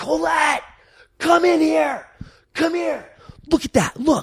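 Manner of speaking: mock shrill, high, thrilled excited yell. Retelling calling his wife to the computer: retelling yelling at his wife. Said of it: "just yelling at my wife".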